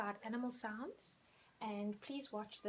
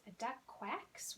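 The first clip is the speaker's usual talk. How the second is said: slow, careful model sentence; slow teacher model; 4 dB quieter, slower than usual. Shown as a demonstration. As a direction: model it slowly.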